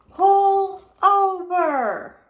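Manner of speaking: high, loud, slow megaphone order; bullhorn shout. A narrator's reading. Policeman orders the car over through a bullhorn. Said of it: "shouted into his bullhorn".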